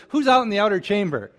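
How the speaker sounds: a king calling to the next room. Retold or imitated. King to the servants outside, calling out loud.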